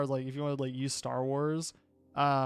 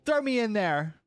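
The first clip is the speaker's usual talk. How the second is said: put-on excited kid; 6 semitones higher, 3 dB louder than usual. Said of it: "and I was like".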